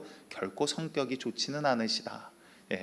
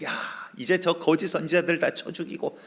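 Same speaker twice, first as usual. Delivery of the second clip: raised, higher rallying cry; shouting command; 6 semitones higher than usual. Acted. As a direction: call the people to strike. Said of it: "막 백성들에게 소리치거든요".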